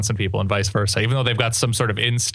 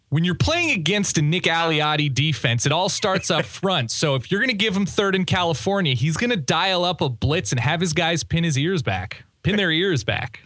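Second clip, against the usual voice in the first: higher-pitched sports analyst impression; Jesse Palmer; 4 semitones higher than usual. Podcast host replaying his prank question to Jesse Palmer, analyst impression. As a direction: put on a football pundit's voice, pitched up. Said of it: "Do you wanna hear the voice?".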